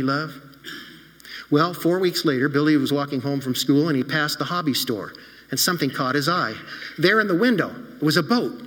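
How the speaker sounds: put-on gently paced storytelling for children; story narration. A narrator's reading. Pastor telling the children a story, warm storytelling. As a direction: read it like a bedtime story to kids.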